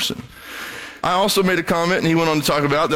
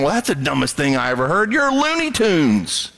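dismissive mockery. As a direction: brush them off with a sneer. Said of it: "you don't sit there going".

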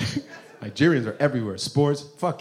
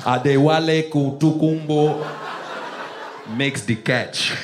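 struggling sports announcer; 3 semitones lower, slower than usual. Acted. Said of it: "They should have a Nigerian announcer".

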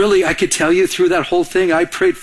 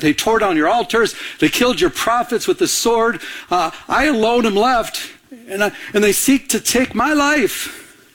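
whiny excuse; 4 semitones higher than usual. Retold or imitated. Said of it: "he's making an excuse".

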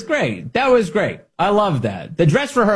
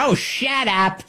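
laughing mock voice; 10 semitones higher, much slower than usual.

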